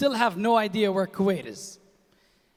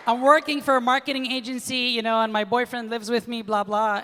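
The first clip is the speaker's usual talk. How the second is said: put-on white girl voice. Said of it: "I don't know why she's white".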